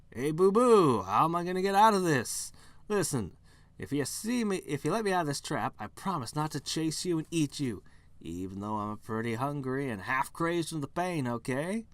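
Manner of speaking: Yogi-style bear. Acted.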